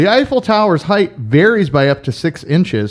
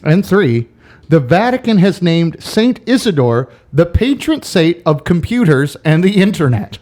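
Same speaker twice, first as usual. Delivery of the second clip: quiz host voice; 2 semitones higher than usual. Shown as a demonstration. Reading trivia statements slowly.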